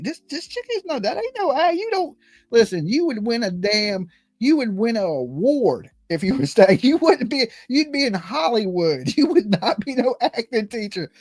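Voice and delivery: high, amazed disbelief; incredulous aside. Retold or imitated. Telling classmates she isn't acting, high disbelief. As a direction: pitch it up like you can't believe it. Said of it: "I was like".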